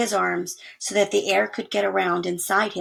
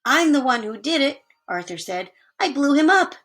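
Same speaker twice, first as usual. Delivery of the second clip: proud boast; 5 semitones higher than usual. Acted. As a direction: claim the credit proudly. Arthur proudly claims credit.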